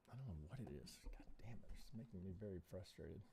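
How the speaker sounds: whispered under his breath, fed up; frustrated whisper. Real, not acted. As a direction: grumble it softly to yourself. Lag frustrating him live.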